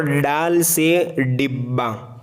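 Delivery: डाल से डिब्बा with a hard retroflex ड, slow; slow demo. Shown as a demonstration. Teacher contrasting the letters: a slow, hard retroflex डाल से डिब्बा. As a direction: set डाल से डिब्बा apart with a firm curled-tongue ड. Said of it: "दोनों का फ़र्क आप महसूस कर रहे होंगे".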